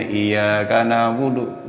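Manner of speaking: "iyyaka" with a single y; level chant, undoubled y in "iyyaka"; mistaken recitation. Shown as a demonstration. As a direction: say "iyyaka" as iya-ka, no doubled y. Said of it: "nyembah matahari kita".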